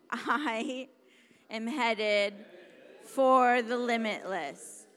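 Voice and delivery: loud, emphatic rallying declaration; with an exclamation point. Shown as a demonstration. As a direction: belt it out, stretched and punchy. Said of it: "there was an exclamation point".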